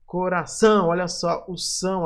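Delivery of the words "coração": "coração" with a firm final ÇÃO; stress on ÇÃO. Shown as a demonstration. Teacher repeating the example for students, stress on ÇÃO in "coração". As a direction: land on the last syllable of "coração". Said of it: "a sílaba mais forte".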